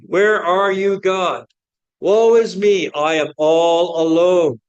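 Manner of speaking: a lone prophet wailing, hammed-up; mock lament. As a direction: voice Elijah crying out to God. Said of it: "he cries out to God".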